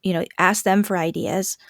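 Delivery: breathy whispered aside. Real, not acted. Parent coach whispering a suggestion. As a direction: say it under your breath. Unvoiced opening line.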